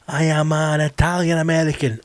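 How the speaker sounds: lightly mocked heritage claimant; slightly put-on voice proudly claiming heritage; desperate Italian American. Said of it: "people trying to desperately hold on".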